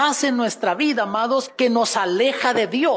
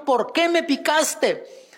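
slow, pleading cry, barely raised; a half-voiced cry of despair, drawn out; mild desperate cry; 4 semitones higher, slower than usual. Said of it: "le gritó en desesperación". (grito desesperado suave y lento)

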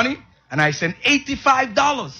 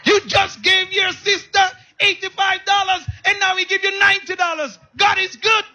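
voice of God; 12 semitones higher than usual. Retold or imitated. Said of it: "I heard a voice said".

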